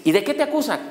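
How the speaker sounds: high-pitched questioning cop; lightly put-on high policeman voice; imitated police officer. One policeman asks his accused partner, lightly imitated high cop. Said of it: "uno le dice al otro".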